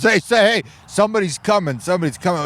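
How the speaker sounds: high, rushed, paranoid whispering-turned-yelping; frantic crazed guy. Retold or imitated. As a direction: gabble it out like a man gone mad. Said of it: "He goes".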